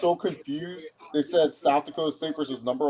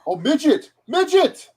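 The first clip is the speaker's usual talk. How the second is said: loud, high-pitched jeer; heckling yell; 14 semitones higher, 6 dB louder than usual. Real, not acted. Fan heckling a player on screen, loud yell. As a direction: call it out, leaping higher on the repeat.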